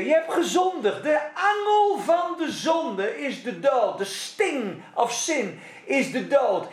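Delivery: taunting with a laugh; half-laughing devil's taunt; laughing mock accuser. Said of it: "En dan komt hij weer".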